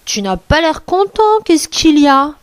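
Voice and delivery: a hint of a curious fox; fox character. Fox questions the wolf.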